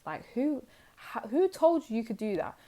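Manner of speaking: acted outrage, rising at the challenge; mock indignation. Voicing angry men questioning who let you boss up, indignant. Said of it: "They're mad. They're like".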